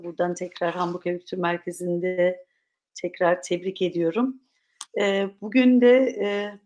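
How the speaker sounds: slightly hoarse, tired throat. Real, not acted. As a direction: talk through a hoarse throat. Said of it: "sesim de hafif kısıldı".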